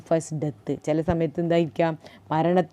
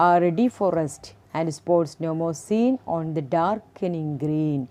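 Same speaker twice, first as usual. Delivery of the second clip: poem recitation; much slower than usual. Acted. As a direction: read the stanza aloud to the class, slowly. Teacher recites the poem stanza.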